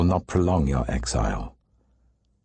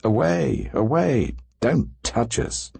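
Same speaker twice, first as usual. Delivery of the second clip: mild narrated cry; 6 semitones higher than usual. A narrator's reading. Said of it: "people cry to them".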